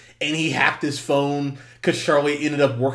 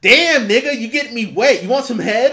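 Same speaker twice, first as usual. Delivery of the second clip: high, loud hammed-up come-on; crude flirting; 8 semitones higher, 6 dB louder than usual. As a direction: play the woman coming on too strong. Voicing Tanya flirting crudely.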